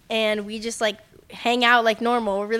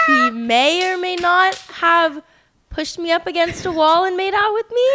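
higher, laughing through a juicy reveal; giggly confession; 7 semitones higher, 4 dB louder than usual. Real, not acted. Friend confessing to listeners about the makeout, giggling. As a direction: let giggles leak as you spill it.

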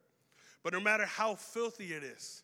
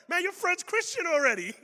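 mock exasperation; 9 semitones higher, 9 dB louder than usual. Unimpressed reply to churchgoer.

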